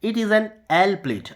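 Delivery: slow, careful example sentence; slow example read. Shown as a demonstration. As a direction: read the example slowly and clearly. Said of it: "जैसे example देख लेते हैं".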